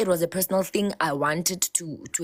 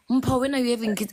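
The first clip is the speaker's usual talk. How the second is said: nagging relative; 6 semitones higher, faster than usual. Retold or imitated. Everyone pestering her sister about kids, mocked. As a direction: needle her like a pushy aunt.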